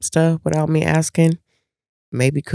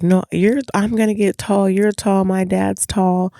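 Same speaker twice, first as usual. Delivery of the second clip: put-on higher, insistent kid voice, slowing at the end; imitating daughter; 7 semitones higher than usual. Daughter arguing she will get tall, insistent and high. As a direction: protest like a stubborn teen.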